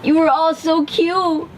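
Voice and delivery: mama duck gushing over her babies; joyful mama duck. A narrator's reading. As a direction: beam over your new chicks. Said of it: "said the mama duck, filled with joy".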